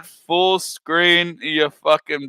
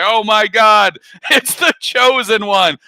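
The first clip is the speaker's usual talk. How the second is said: lightly hammed-up gushing, raised pitch; mock awe; 4 semitones higher, 3 dB louder than usual. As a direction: imitate people gushing over a miracle baby. Voicing culture's awe over babies.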